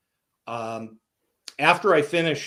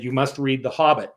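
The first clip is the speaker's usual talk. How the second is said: put-on English accent. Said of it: "He had this great English accent".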